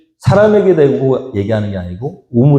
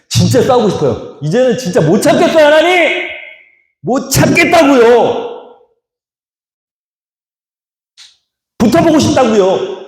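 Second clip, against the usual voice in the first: exasperated cry; 11 semitones higher than usual. Acted. Isaac crying out to God that he can't endure any longer. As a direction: beg God, at the end of your patience. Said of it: "Isaac can't hold back anymore".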